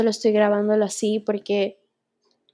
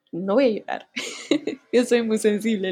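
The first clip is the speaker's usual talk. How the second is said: voice breaking. Real, not acted. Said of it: "Y lo digo con, quebrándome un poquito".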